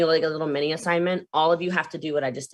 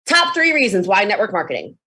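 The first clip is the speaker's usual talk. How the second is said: punchy hook read, a bit louder; TikTok hook; 4 dB louder than usual. Shown as a demonstration. Recording a TikTok hook for followers. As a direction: sell the hook to camera. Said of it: "Let me show you how easy it is".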